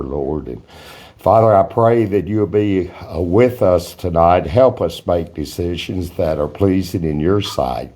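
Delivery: prayer. Acted. Opening prayer at meeting.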